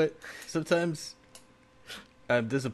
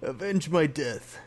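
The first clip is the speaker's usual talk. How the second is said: overacted death scene; slower than usual. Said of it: "he's like".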